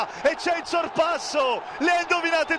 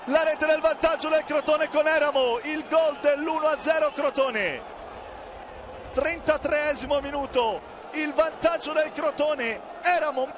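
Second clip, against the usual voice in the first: breathless italian goal commentary; 3 semitones higher than usual. Real, not acted. Goal scored, commentator erupts.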